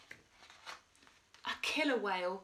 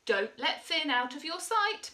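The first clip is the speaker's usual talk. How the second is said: calling after; 6 semitones higher, 4 dB louder than usual. A narrator's reading. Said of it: "Missus Munch called".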